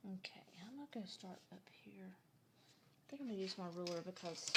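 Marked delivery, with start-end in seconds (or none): 0.1-1.9 soft whisper to herself. Real, not acted. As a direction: hush it while concentrating. Whispering while drawing.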